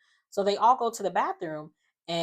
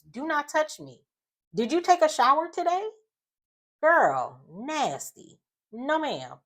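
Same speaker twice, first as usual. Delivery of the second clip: much higher, indignant rant; outraged rant; 9 semitones higher than usual. Real, not acted. Host rants at the guest who won't wash, high indignant outrage. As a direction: rise into disgusted outrage.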